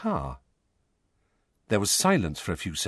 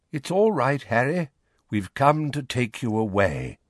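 gently hoarse; 3 semitones higher than usual. Acted. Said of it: "slightly hoarse voice floated upstairs".

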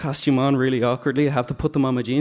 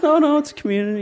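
laughing friend insists; 14 semitones higher, 5 dB louder than usual. Retold or imitated. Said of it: "And she goes".

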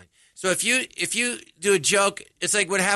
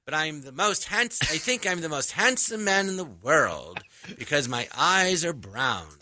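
mocking Jewish speech; 2 semitones lower than usual. Comic translating his French while mocking himself, Jewish speech cadence. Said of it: "I'm mocking the way a Jew".

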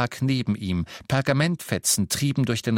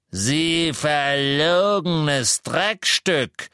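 slow, louder, spitting contempt; furious; 5 semitones higher, 4 dB louder, much slower than usual. A narrator's reading. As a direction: drag out the insult in rage. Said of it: "rief der Zauberer namens Selwyn".

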